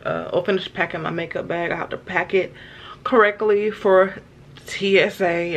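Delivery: tired late-night hush. Real, not acted. Late-night wind-down before bed.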